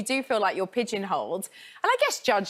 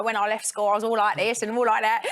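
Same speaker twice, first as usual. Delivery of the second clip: lightly exaggerated working-class accent; broad working-class accent. Shown as a demonstration. Actress recalls leaving school, broad working-class accent. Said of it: "you've got the accent".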